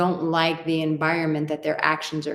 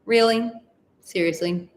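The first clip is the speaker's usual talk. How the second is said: incredulous to herself; 3 semitones higher than usual. Retold or imitated. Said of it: "look at ourselves in the mirror and go".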